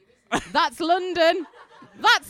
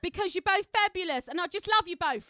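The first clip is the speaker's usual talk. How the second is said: hammed-up London Cockney; Cockney accent. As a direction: read it as a cheeky Cockney.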